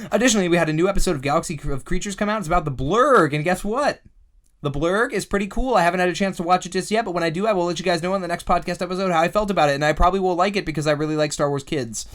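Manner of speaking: fast, loud auctioneer patter. Pretend. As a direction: rattle it off like an auctioneer. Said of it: "I'm gonna talk my auctioneer voice".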